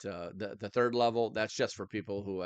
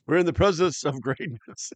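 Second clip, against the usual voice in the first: mock royal pomp; 7 semitones higher, 10 dB louder than usual. Mock royal self-praise.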